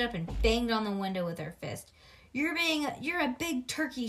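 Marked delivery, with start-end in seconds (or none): 2.3-4.1 higher, louder taunt; yelled. A narrator's reading. Bean yelling at her sister through the window, loud and high. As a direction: bang the window and yell it. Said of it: "she yelled".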